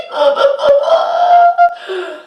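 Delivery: high hysterical shrieking laugh. A narrator's reading. Son's panicked outburst.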